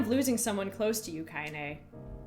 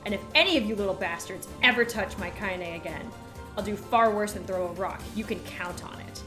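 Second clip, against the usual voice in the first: voice thick with rage; 4 dB louder than usual. Acted. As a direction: threaten the brats with cold fury. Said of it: "in a voice thick with rage".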